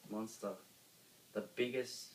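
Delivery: usual speaking voice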